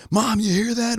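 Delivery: very high mock yell, not truly loud; high, strained-up pitch without full volume. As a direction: imitate calling to mom over plane noise. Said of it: "had to start talking louder".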